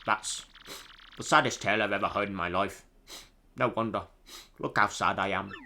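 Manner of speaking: mournful line in bad British accent; awful British accent. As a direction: lament lightly in a hammed British accent. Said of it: "my awful British accent".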